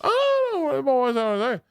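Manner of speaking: very high-pitched redneck father-in-law; hammed-up, garbled redneck dad impression; wife's redneck dad. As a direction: squeal it like a Southern old-timer. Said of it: "impression of my wife's dad".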